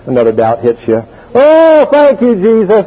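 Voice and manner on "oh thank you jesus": excited praise. Retold or imitated.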